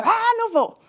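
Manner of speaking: put-on high-pitched childlike protest; defiant refusal. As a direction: dig in and refuse like a resisting child. (recusa teimosa, voz aguda)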